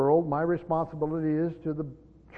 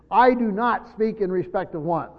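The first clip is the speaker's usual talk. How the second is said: firm, raised emphasis on "I do not speak"; strong negative; 3 semitones higher, 4 dB louder than usual. Shown as a demonstration. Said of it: "it's a strong negative".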